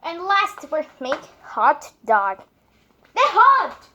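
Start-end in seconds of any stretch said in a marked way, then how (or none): 3.1-3.9 surprised. Real, not acted. Reacting to hot food.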